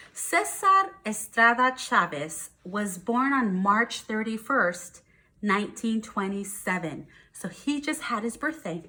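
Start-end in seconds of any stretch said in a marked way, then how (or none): 0.1-7.1 slow, careful storybook reading; gentle picture-book read-aloud; reading to children. Acted. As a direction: read it slowly to the class.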